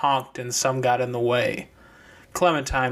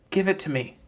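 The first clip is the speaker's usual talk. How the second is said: put-on high young girl's voice; deer girl's voice; 6 semitones higher, faster than usual. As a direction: pitch up into the deer girl. Deer asks for watch.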